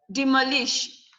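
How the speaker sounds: "demolish" stressed on its middle syllable. Shown as a demonstration. Teacher telling students where stress comes from, "demolish" stressed on MO. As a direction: lean on MO in "demolish". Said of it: "Your stress should come from the M O".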